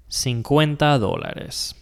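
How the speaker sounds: cincuenta dólares said slowly, stress on the first O of dólares; careful teacher demo; slow Spanish demo. Shown as a demonstration. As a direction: model it slowly for learners. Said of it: "we're going to say".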